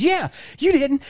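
high-pitched mock outrage; worked-up retelling of a telling-off; retold exasperation. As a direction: imitate an exasperated boss going off. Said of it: "I was losing my shit".

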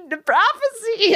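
drawn-out pretend omen; old man's warning. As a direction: draw it out like a hammy prophet. Old man voiced pleading.

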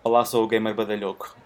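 seductive, purring introduction; a light hint of seduction in the greeting; sensual voice. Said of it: "não podes dizer isso com essa voz sensual".

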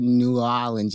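"New Orleans" with a clearly separate New; full "new". Retold or imitated. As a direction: slowly pronounce New in "New Orleans". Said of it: "You put the new in there".

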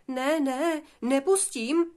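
defiant piglet. Acted. Piglet Ervín refusing the wolf at the door, defiant. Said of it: "oponoval Ervín".

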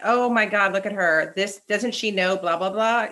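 lightly voiced sneering gossip; judgy onlooker. Imagining someone mocking her choices, mock snide. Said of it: "someone saying, like".

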